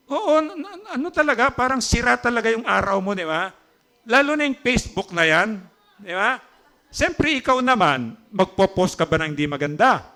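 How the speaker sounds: excited preaching. Acted. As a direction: rouse the congregation. Preacher builds excitement about envy.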